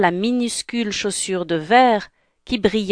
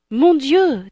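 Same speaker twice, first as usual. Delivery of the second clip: higher-pitched acted alarm; alarmed gasping exclamation; 6 semitones higher than usual. Cinderella hears midnight strike. (exclamation affolée)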